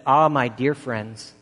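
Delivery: slow, gently earnest address to the flock; a mild, slow pastoral plea; earnest appeal. Retold or imitated. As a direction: draw them in slowly, like an old preacher. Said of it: "And he said to them this".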